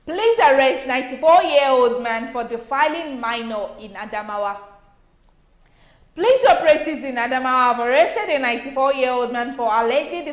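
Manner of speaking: measured newsreader delivery; news read. Acted. Co-host reading the next story to the panel, news read. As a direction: read out a police report, evenly.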